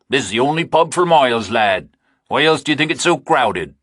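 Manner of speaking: mock the stranger's question; rural farmer, scoffing. Narrator voices a rural farmer.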